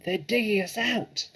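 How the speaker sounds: panicked alarm. Acted. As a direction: warn in terror. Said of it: "he shouted".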